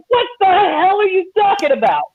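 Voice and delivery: put-on confused kid. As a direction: play the kid's bewildered reaction. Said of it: "the kid's looking at him like".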